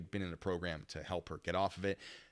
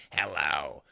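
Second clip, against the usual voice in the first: lower, drawn-out hello; a strange slow hello, lower than the teller's own; weird meth voice; 4 semitones lower, 4 dB louder than usual. Retold or imitated. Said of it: "meth will make your voice do that".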